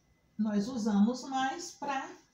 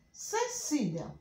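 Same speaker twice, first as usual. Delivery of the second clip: "Cecília" slow, raised, then falling; word dictation; 5 semitones higher, much slower than usual. Shown as a demonstration. Teacher repeating the listed words, "Cecília" slow and raised. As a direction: stretch "Cecília" out in clear syllables. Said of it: "eu vou só repetir aqui algumas palavras".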